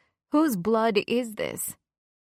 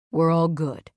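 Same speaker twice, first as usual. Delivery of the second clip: calling across the room, a bit louder; 6 dB louder than usual. A narrator's reading. Man calls out to her from inside the room, loud. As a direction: call out the all-clear. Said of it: "he calls".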